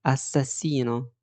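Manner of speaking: slow demonstration of "اساسينو" with sharp S; "اساسينو" with the double S pronounced as S; hissed double S. Shown as a demonstration. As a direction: say "اساسينو" with a clear S sound, never Z. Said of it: "هنطقها اس برضو".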